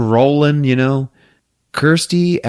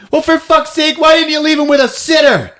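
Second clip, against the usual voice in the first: much higher, exasperated squawk; higher indignant character voice; mock exasperated. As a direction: scold them in a hammed-up voice.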